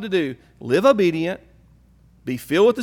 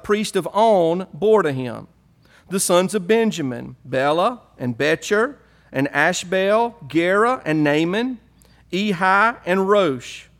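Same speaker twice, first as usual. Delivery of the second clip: Southern Hebrew voice. Pretend. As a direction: read the names like a Southern Hebrew redneck. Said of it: "my best Southern Hebrew voice".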